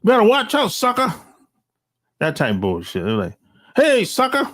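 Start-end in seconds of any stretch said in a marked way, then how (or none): 0.0-1.1 mock eighties movie tough talk, pitched up; higher-pitched send-up of stereotyped street lingo; eighties movie slang. Mocking outsiders who copy eighties movies, mock stereotyped slang. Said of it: "they get shit from eighties movies". 3.7-4.5 high-pitched mock eighties movie call-out; eighties movie slang. Imitating outsiders who lean on stereotypes, mock eighties slang. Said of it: "they get shit from eighties movies".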